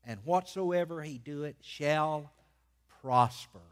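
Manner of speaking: measured reading with long pauses and punched key words; emphatic scripture reading. Real, not acted. Preacher reading the first Psalm to his church, emphatic proclamation. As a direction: proclaim the verses phrase by phrase.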